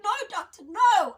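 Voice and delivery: high, loud protest, nearly a shout; panicked denial. Retold or imitated. To the doctor who says she is high, loud denial. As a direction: cry out to deny it and cover up.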